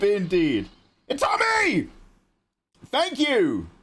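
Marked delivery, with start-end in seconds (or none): 1.1-3.7 high squealing delight; excited squeal. Real, not acted. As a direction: squeal with joy at the donation.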